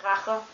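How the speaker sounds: Rache with a light ch in the throat; soft German ch. Shown as a demonstration. Teaching a friend German, a mild ch. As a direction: say Rache gently, ch not too strong. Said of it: "you don't really pronounce it as strongly".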